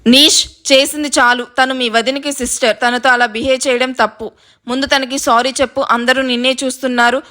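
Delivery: firm motherly reprimand; controlled, no-nonsense telling-off; serious. Acted. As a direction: put an end to the quarrel sternly. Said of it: "సీరియస్గా చూస్తూ చెప్తున్న రాగిణి".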